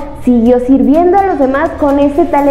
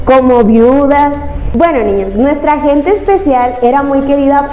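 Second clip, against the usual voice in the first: put-on lively storyteller voice for kids; reading to children. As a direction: tell it like a kids' show host.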